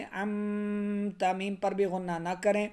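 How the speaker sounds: usual speaking voice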